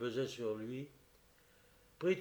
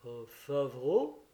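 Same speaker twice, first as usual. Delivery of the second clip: taken aback; much slower than usual. Acted. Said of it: "s'exclama l'excellent Prosper".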